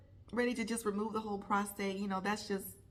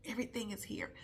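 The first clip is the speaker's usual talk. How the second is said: whisper; 5 dB quieter, faster than usual. Real, not acted. Heavy feelings kept inside.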